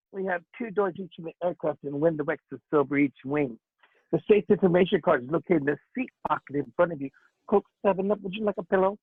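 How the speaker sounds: hammed-up camp cabin announcement; mock a prissy steward reading the safety spiel; lightly voiced camp flight attendant; mincing flight attendant. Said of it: "when I did the gay thing".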